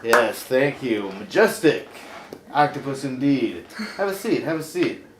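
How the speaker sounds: loud, showy host voice; talk show host. Acted. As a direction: bring on the guest with fanfare.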